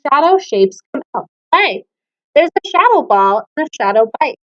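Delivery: put-on lilting children's verse; poem read to kids. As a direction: read it playfully, like storytime. Reads shadow poem to class.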